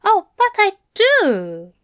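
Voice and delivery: high, loud voice for Aziraphale; earnest Aziraphale. A narrator's reading. Aziraphale earnestly answers Crowley, in a high, loud voice. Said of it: "his face earnest".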